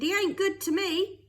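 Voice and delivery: high and loud bitter retort; defiant shout. A narrator's reading. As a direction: spit it out in defiance. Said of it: "Jim shouted".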